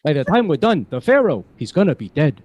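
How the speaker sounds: put-on old Jewish man accent, kvetching; Yiddish-flavored New York accent. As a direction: complain like an old Jewish grandpa. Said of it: "hearing my Jewish accent".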